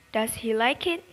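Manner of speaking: "does he like it?" rising on it; yes-no question with a rising end; rising tune. Shown as a demonstration. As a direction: lift the voice on the final word. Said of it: "list up at the end".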